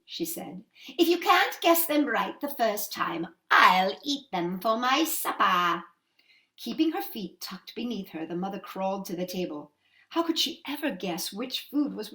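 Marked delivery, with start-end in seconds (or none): 1.0-5.8 menacing witch. Acted. Witch threat.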